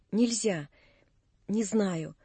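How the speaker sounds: hushed, as if struggling to decide; hesitant near-whisper. A narrator's reading. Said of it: "прошептала она, как бы в борьбе и раздумье". (тихо, почти шёпотом, в колебании)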